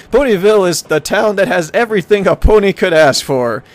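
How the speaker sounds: hammy travel-brochure announcer; tourism ad read. Acted. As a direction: sell the town like a promo. Reads travel brochure aloud.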